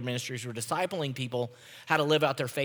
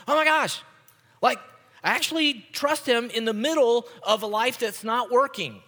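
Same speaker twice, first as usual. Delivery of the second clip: much higher and louder "Oh my gosh", amazed disbelief; shocked realization; 8 semitones higher, 6 dB louder than usual. Retold or imitated. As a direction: gasp it out as if stunned to find you trust him. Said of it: "And you're surprised, right? You're shocked".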